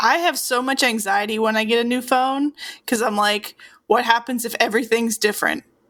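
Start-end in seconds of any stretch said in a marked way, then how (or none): none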